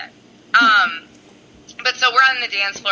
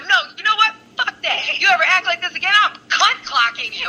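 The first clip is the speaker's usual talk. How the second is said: much higher, giggling threat; laughing mock threat; 10 semitones higher than usual. Joking threat to her friend, high and laughing. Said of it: "I go".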